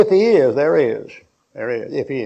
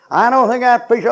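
higher, louder whiny objection; mock heckler; 9 semitones higher, 5 dB louder than usual. Preacher voicing a grumbling listener's objection, whiny mock heckler. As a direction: whine it like a grumbling pewsitter.

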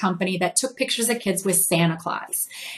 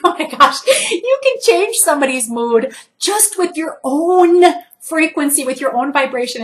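laughing; 5 semitones higher than usual. Retold or imitated. Laughing at own discovery.

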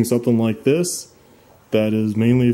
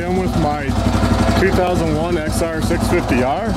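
shouting over engine; 5 semitones higher than usual. Real, not acted. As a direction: talk up over the engine noise. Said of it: "Hope you can hear me over the engine".

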